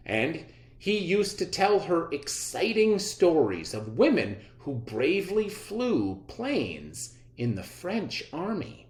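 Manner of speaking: clear, measured read-aloud for students; reading aloud to class. Acted. Teacher reads the biography aloud.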